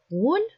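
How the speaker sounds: Кульбабка in three pieces, куль, баб, ка; syllable by syllable. Shown as a demonstration. Teacher showing syllable division, word in separated pieces. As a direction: say Кульбабка with a gap after each syllable. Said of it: "Ділення на склади".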